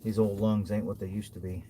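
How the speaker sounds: out of breath in the cold. Real, not acted. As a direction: puff the words out, short of breath. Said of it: "Breathing hard".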